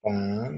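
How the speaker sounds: PAN as a separate first syllable. Shown as a demonstration. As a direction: set "pan" apart, as if dictating. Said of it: "Un ejemplo de tres sílabas". ("pan" dictado como sílaba suelta)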